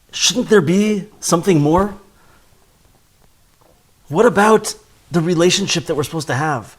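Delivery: wife's pleading. Retold or imitated. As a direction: push the questions like a longing wife. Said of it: "she says".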